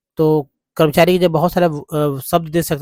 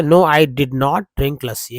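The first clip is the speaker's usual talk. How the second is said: slow emphatic denial; slower than usual. Shown as a demonstration. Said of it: "या I, मतलब इस तरह से बोले".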